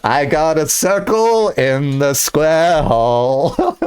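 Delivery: slow, put-on rapper voice with a laugh breaking in; mock rapper drawl, lightly voiced; a rapper. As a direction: drag it out like a lightly done rapper's bar. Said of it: "be like".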